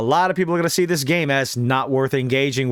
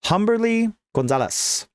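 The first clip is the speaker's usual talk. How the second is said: a light touch of Spanish accent; slight Spanish accent; 5 semitones higher than usual. Real, not acted. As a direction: put a bit of Spanish accent on the name. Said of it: "put that bit of an accent".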